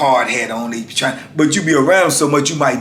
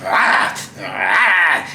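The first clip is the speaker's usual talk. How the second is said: mouthed dog snarl at the door; short animal noises, imitated; imitated attack dog; 3 semitones higher than usual. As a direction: mimic a lunging dog. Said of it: "the dog is like this".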